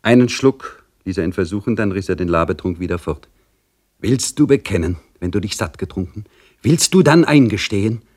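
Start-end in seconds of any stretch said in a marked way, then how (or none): 4.0-8.0 higher, louder preaching priest; stern priest demanding a confession; admonishing priest. Acted. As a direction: press him to confess with pious severity. Priest tempts with water.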